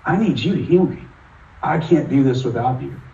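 a touch of remembered crying in the plea; tearful plea to God. Retold or imitated. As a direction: beg God for healing as you did in tears. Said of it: "I was crying".

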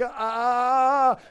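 startled mock cry; frightened yelp. Moses hears he will meet his Lord, startled cry. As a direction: yelp in fear.

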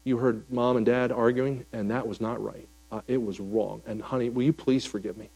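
tearful apology. Retold or imitated. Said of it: "tears come down my face".

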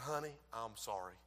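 low, hushed murmur in her ear; quiet, tender retold apology; imitated whispered apology. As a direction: apologize very softly to your wife. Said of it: "I whispered in her ear".

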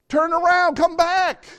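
loud high call to come back. Acted. God calling the straying child home, calling out loud. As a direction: shout it across a distance, urgent and loud.

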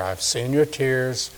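slow, soft tender assurance. Shown as a demonstration. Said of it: "I like this".

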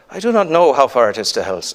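put-on quick, slipping into an Irish accent; botched Welsh-turned-Irish accent. Miner answers the chairman in the hoist, accidental Irish accent. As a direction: attempt a Welsh miner, landing lightly Irish. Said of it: "I'm doing an Irish accent now".

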